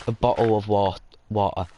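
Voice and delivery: "bottle of water" with clipped T's swallowed in the throat; mock British "bottle of water"; glottal-stop British. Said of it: "I started saying how they go".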